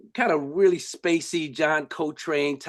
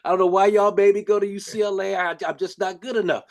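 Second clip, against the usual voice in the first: much higher, half-laughing imitation of a teary freshman; mock crying to parents; 7 semitones higher, 3 dB louder than usual. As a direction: whine it up high like a homesick kid, laughing at yourself. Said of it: "crying like a little baby".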